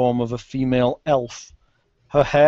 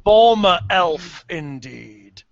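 scornful banshee; 3 semitones higher, 3 dB louder, slower than usual. Acted. Banshee mocks Guybrush's words.

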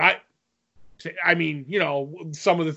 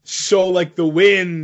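dramatic movie quote; 4 dB louder, much slower than usual. Pretend. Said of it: "stealing from Three Amigos".

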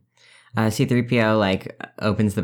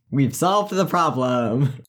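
slow, chipper robot-butler cheer; cheerful; 3 semitones higher, much slower than usual. Acted. C3PO announcing success to the room, cheerfully. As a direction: say it brightly, pleased with himself.

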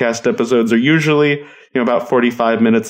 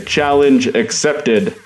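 Barney catchphrase; 4 semitones higher, much slower than usual. Pretend. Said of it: "Barney from How I Met Your Mother".

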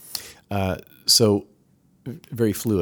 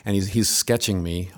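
ordinary talk

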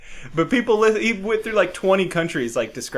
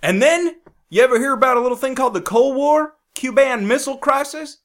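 higher, louder hammed-up flag-waving yell; mock patriot rant; 8 semitones higher, 4 dB louder than usual. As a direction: bellow like a cartoon patriot.

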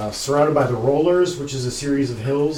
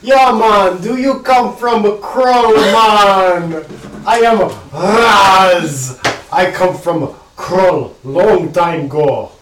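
raised, slow half orc drawl; half orc accent; 5 semitones higher, 7 dB louder, much slower than usual. Acted. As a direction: voice him as a gruff half orc. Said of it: "You have completely different accent".

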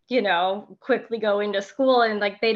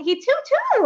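tiny voice; 4 dB louder than usual. Retold or imitated. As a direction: squeak it like a tiny child.

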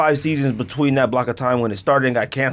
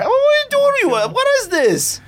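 mock big-hair character. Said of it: "I'm gonna go big hair".

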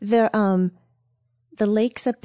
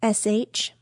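spelling it out. Shown as a demonstration. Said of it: "Okay, here we go".

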